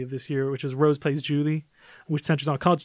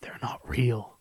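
low, soft grumbled whisper; low grumble; 4 semitones lower, 5 dB quieter, slower than usual. Retold or imitated. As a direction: grumble it low under the breath. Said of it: "in this, like, low grumble".

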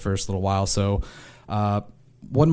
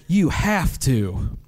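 mom insisting; 5 semitones higher, much slower than usual. Retold or imitated. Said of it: "And she'd be like".

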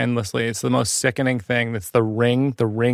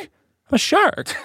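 shark boast; 13 semitones higher, much slower than usual. Acted. Acted shark boast in bit.

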